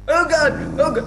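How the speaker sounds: laughing exclamation. Real, not acted. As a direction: laugh it out in shock. Reacting to hit.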